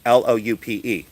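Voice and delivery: careful dictation; spelling it out. Shown as a demonstration. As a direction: spell "L O U P E" letter by letter.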